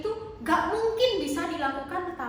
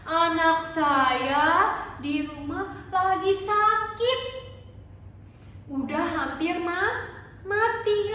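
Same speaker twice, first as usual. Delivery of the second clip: higher, louder begging with a sung, wobbling edge; tearful plea; 4 semitones higher, 3 dB louder than usual. Acted. Father begs Jesus to heal his daughter, pleading tearfully. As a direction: plead desperately for a sick child. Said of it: "Dia minta tolong sambil nangis".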